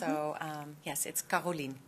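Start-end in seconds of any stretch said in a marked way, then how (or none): 1.2-1.8 Caroline as "ka-ro-LEEN", falling at the end; French-style Dutch pronunciation. Shown as a demonstration. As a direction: say Caroline with open "ah" and long "ee". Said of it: "exactly how we pronounce it in the Netherlands".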